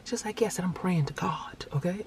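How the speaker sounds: put-on hushed aside to a child; retold whisper. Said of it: "I whispered in her ear".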